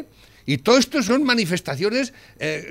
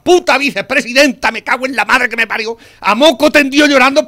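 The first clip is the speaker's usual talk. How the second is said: louder, higher, real outrage boiling over; a furious tirade against the vice president, louder and louder; furious outburst; 3 semitones higher, 6 dB louder than usual. Real, not acted. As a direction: rant at her, seething and loud. Angry rant at vicepresident.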